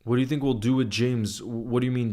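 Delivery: normal talking voice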